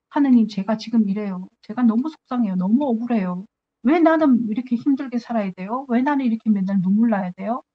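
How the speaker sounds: mildly aggrieved retold protest; acted-out tearless lament; arguing, pleading complaint. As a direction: press God with one why after another. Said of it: "막 이렇게 따지다 보면".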